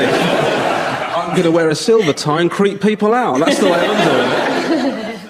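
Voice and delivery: slow, hammed-up Ed, pleased with himself; mock Ed Miliband voice. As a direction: drawl it out as a smug oddball. Ed mocked as a maverick.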